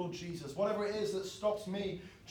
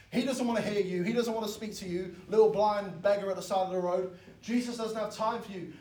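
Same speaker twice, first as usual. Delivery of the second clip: louder, higher, dismissive crowd voice; scornful crowd; 4 semitones higher, 6 dB louder than usual. Retold or imitated. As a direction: brush the beggar off with contempt. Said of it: "And the crowd said".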